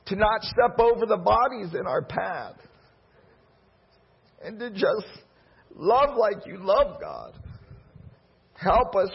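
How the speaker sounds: earnest prayer, rising in fervour; heartfelt prayer. Acted. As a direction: pray it from the heart to God. Pastor prays over the congregation.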